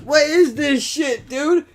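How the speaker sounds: high, loud, mock-outraged rant; outraged yell. Scolding her greed on the phone, high mock-outraged yell. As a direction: shout it like she's being greedy. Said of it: "I'm like".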